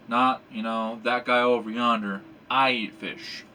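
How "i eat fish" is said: I said firmly, the rest easy; I singled out, firm and clear; stress on I. Shown as a demonstration. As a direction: insist it's you who eats. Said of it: "Not you, not Bob across the street".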